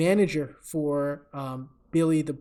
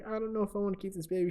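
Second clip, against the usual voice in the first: higher, rushed worried voice; mock distressed; 5 semitones higher, 4 dB quieter, much faster than usual. Pregnant fighter to the father, mock distressed. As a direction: lightly act out a tearful, hurried confession. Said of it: "She's, like, crying".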